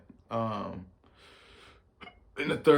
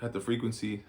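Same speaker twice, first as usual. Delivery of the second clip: hiccups breaking the words; talking through hiccups; 5 dB quieter than usual. Real, not acted. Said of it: "Pardon my hiccups".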